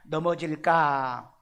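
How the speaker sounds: 넘어질까 stretched slowly, syllable by syllable; slow drawn-out word. Shown as a demonstration. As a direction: draw out 넘어질까 slowly for the class. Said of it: "여기 우리 원어를 한번 봅시다". (넘어질까를 천천히 늘여서)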